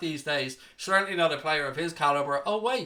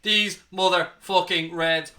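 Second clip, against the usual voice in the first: hyped celebration; 5 dB louder than usual. Real, not acted. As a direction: relish every word of the win. Fan celebrates win, hyped.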